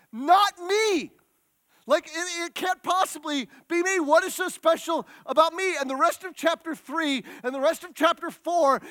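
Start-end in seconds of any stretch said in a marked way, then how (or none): 0.1-5.7 incredulous Moses. Acted. Moses protests his calling.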